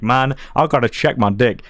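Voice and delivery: words through a chuckle; laughing through it. Retold or imitated. Telling viewers about checking after surgery, laughing. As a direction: let a laugh spill into the line.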